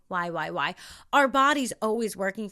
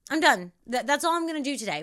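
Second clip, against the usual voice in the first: firm self-command; 3 semitones higher, 3 dB louder than usual. Retold or imitated. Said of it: "I would tell myself".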